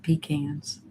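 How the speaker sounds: pecans said as 'PEE-cans'; long 'ee' and short 'a' in pecans; another's pecans. Retold or imitated. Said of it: "Missus G said".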